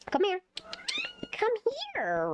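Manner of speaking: high coaxing call; calling the cat. Real, not acted. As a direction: coax the cat over, high and sweet.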